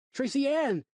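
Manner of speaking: calling out loud and high; a father yelling for his lost daughter; shout. Acted.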